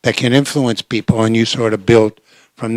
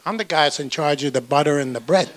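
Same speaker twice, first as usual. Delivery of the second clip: laughing punchline; 4 dB quieter than usual. Retold or imitated. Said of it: "He says".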